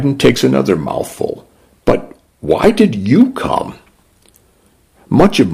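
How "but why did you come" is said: put-on little girl voice. A narrator's reading. Young girl asks.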